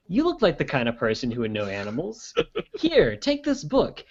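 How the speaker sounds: video game NPC. Acted. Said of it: "like you're a video game N P C".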